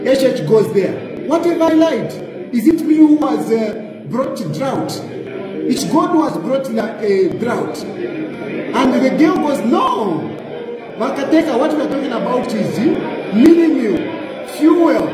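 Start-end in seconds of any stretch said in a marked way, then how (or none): 1.3-7.8 indignant retort. Retold or imitated. President snapping back at the MP, mock indignant. 9.6-15.1 rising mock shout ending on fuel; heated reply. Female MP shouting back at the president, rising mock shout. Voicing the MP's heated answer.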